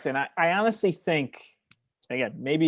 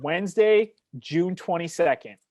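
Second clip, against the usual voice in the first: excited; 4 semitones higher than usual. Acted. Dramatic reveal of the big one.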